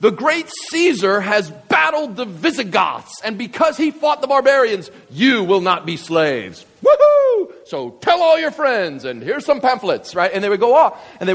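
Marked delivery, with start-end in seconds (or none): 0.0-6.7 high, ringing herald's call; town crier. Retold or imitated. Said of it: "they would go out and they would say". 6.8-7.5 high, loud cheer; excited whoop. Retold or imitated. Cheering in herald's proclamation. 7.7-10.1 high, ringing herald's call; town crier. Retold or imitated. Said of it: "they would go out and they would say".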